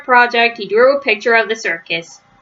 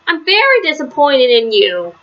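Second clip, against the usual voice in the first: scolding; 5 semitones higher than usual. Acted. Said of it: "she scolded".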